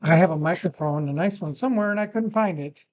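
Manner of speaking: muffled voice, poor mic. Real, not acted. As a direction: sound muffled, like through a hand. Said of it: "I apologize if this is all muffled".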